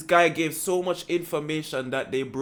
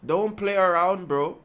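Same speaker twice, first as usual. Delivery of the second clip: put-on Toronto slang accent. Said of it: "Was that okay?".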